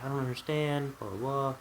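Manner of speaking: mock a puzzled mother's protest; imitating mom. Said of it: "and she's like".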